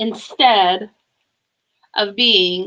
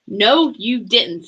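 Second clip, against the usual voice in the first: snapped; slower than usual. Acted. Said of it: "snapped Sam".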